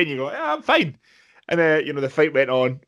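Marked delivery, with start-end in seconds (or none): 0.3-1.0 dazed reply. Retold or imitated. Dazed boxer answering referee.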